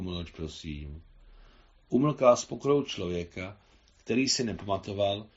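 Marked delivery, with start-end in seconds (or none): 0.0-1.0 klidně. A narrator's reading. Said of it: "jemuž mohla klidně říct".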